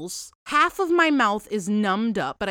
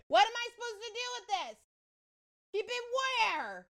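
high disbelief; 6 dB quieter, faster than usual. Real, not acted. Disgusted at the thrown tooth.

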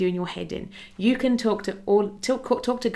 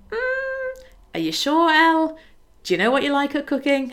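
higher, louder voice for God, gently questioning; God answering gently; 7 semitones higher, 5 dB louder than usual. Acted. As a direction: play God as a kind friend raising a doubt. God answers her in acted dialogue.

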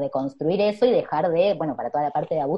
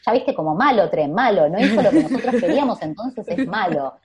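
laughing through a mock scolding of the bad train, voice raised; 4 semitones higher, 5 dB louder than usual. Mother to small child at the station, laughing mock scolding. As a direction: giggle while playing along about the naughty train. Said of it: "Y yo tipo".

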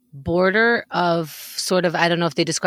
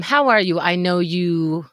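hesitant Keith impression; 3 semitones lower, much slower than usual. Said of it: "nervous when Keith goes".

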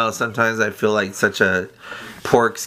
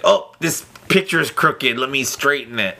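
cartoon voice; 3 semitones higher than usual. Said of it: "starting to sound like Peter Griffin on meth".

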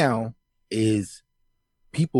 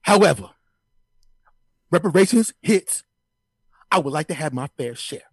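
higher, louder sports-pundit rant; Stephen A Smith impression; 4 semitones higher, 3 dB louder than usual. Pundit demanding reparations on air, loud high ranting impression. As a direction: hammer every demand like a TV hot take. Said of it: "that Stephen A Smith just dropped into the room".

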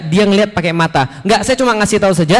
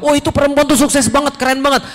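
higher-pitched impressed onlooker; mock admiration; 5 semitones higher than usual. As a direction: act out gushing praise. Acts out admiring gossip about success.

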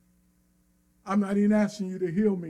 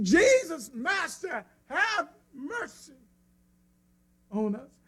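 higher, pleading cry; 5 semitones higher, slower than usual. Acted. Lepers crying out to Jesus across the street, higher pleading. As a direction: plead up high, reaching out. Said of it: "they cried out in anticipation".

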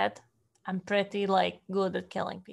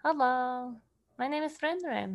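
put-on slightly raised, friendly hello to a child; friendly greeting; 3 semitones higher than usual. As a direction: introduce yourself gently to a little kid. Player greets a child in character.

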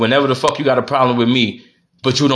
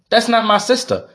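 much higher, mocking echo of her words; higher incredulous mimicry of the wife; mocking repeat; 9 semitones higher than usual. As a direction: throw her line back at her, pitched way up. Repeating the wife's excuse, mocking.

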